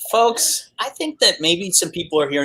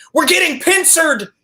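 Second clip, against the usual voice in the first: shrill, very high-pitched screaming; 13 semitones higher, 4 dB louder than usual. Retelling gaming late at night with big headphones on: imitating own screaming. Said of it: "it's three fifteen in the morning and I'm screaming".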